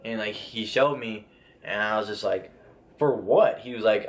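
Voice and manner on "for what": disbelieving for what. Retold or imitated. Shown the warrant, disbelieving.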